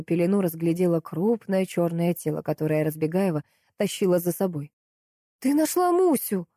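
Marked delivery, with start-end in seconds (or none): 5.4-6.5 much higher, delighted exclamation. A narrator's reading. The narrator sees Galina found the puppy, delighted. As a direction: burst out with joy. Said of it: "обрадовалась я".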